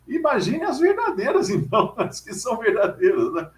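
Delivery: a lightly voiced old lady lifting into joyful wonder. Old lady turning the pastor's words around, rising joyfully. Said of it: "Eu tô chorando de alegria".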